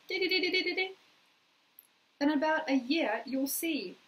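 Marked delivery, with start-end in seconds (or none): 0.1-0.9 bright playful singsong di-di-di, higher. Acted. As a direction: sing it like a little happy jingle. Playful sung sound after request.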